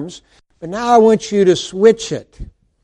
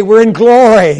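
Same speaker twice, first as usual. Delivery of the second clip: bright, loud and raised; joyful exclamation; 4 semitones higher, 8 dB louder than usual. Pretend. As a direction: proclaim it with joy. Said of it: "we could all say".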